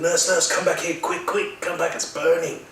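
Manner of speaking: high, frantic call; imitated yell. Patient in burning pain calling back the nurse, frantic yell. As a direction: cry out urgently for someone to return. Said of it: "I yelled out to the nurse".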